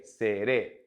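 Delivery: "Seré" slowly, stress on the last é; stressed final syllable. Shown as a demonstration. Teacher repeating Seré for practice, stress on the final é. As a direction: land firmly on the final é of "Seré". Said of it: "use our intonation and our stress".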